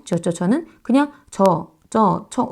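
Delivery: 저 said as one plain vowel, no glide; single vowel 저. Shown as a demonstration. Teacher shows how people really say 지어 as 저. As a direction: repeat 저 simply. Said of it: "저 이렇게 발음하고 있거든요".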